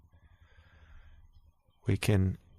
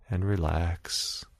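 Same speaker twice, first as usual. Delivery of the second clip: slow breathy whisper; whispered relax; slower than usual. Acted. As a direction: let the word dissolve into a whisper. Meditation guide easing listener down.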